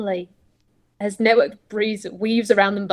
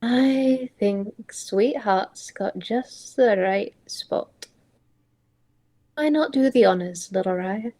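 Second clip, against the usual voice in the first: gentle mentor voice. Acted. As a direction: speak kindly to the child, slowly. Gentle mentor speaks to child.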